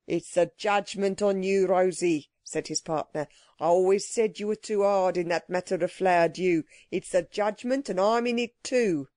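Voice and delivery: lightly voiced stockbroker with a foreign accent; a touch of doleful accented reproach; accented business partner. Partner blames Rosie for their fate, lightly accented reproach.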